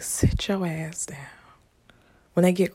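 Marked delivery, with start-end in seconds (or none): 0.0-1.2 slow, stern unvoiced whisper; a parent at wits' end, hushed; quiet whisper. Parent scolding child in slow quiet whisper. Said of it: "through that quiet whisper".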